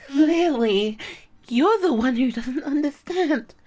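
loud cutting retort; loud contemptuous reply; angry retort. Acted. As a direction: snap it back loudly. Retorting in anger.

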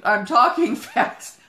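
laughing at own slip; amused slip correction. Real, not acted. Preacher correcting "walking" to "talking", laughing.

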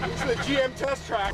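shaken voice over rough pavement; on a bumpy road. Real, not acted. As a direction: speak as the truck bounces. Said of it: "this road was so bumpy".

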